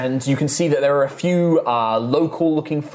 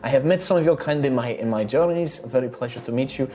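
high, friendly tavern hostess; bubbly innkeeper charming her guests; cheerful halfling innkeeper; 5 semitones higher than usual. Acted. GM voices innkeeper Rosalina.

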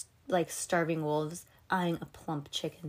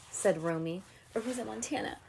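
ordinary delivery

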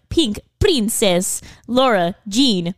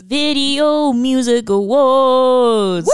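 slow, louder, stretched proclamation; grand announcer voice; 4 semitones higher, 3 dB louder, much slower than usual. Acted. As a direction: announce it like a big show. Echoing, drawn out.

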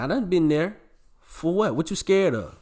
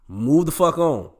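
loud move on; 4 semitones higher, 6 dB louder than usual. Real, not acted. Host yelling at his listeners to move on. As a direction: shout it, much louder.

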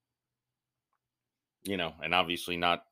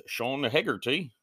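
lightly attempted British accent; a stab at a British accent; guest's accent; 6 semitones higher than usual. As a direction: say the name in his accent, half-sure. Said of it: "if I just nailed his accent".

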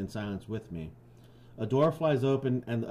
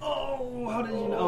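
mock surprise; 12 semitones higher than usual. Host answers his friend's guess in mock surprise. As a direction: act amazed he guessed.

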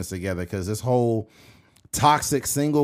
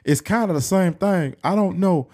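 Charles Barkley; 6 semitones higher, 4 dB louder than usual. Acted. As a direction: imitate an opinionated basketball analyst, stretching the words. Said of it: "Because Charles be like".

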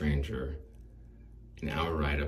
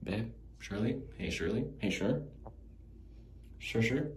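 higher, questioning calls for her; calling out; 6 semitones higher than usual. Acted. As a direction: call her name like she's wandered off. Calling out to imagined Shirley.

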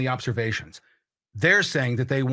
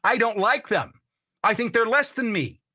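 lightly voiced bigot, pitched a bit higher; imitated racist; 5 semitones higher than usual. Host showing what a racist would say, lightly acted. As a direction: act out a bigot's declaration, slightly raised. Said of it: "a racist would say".

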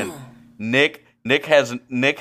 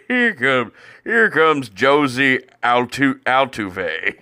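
mock announcer; 2 semitones higher, 3 dB louder, slower than usual. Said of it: "He would go Jose Altuve".

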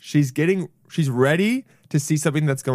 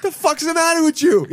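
high, louder, indignant squeal; squeaky angry lobster; 5 dB louder than usual. Pretend. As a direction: yell as the lobster. Voicing lobster yelling.

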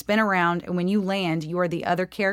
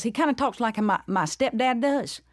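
higher-pitched drawling dad voice; stepdad; 3 semitones higher than usual. Shown as a demonstration. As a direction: talk like a Southern stepdad, pitched up. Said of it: "he talks like this".

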